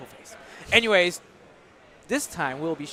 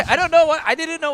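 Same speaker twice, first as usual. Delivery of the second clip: laughing; 11 semitones higher, 10 dB louder, faster than usual. Real, not acted. Host laughs at his surprise.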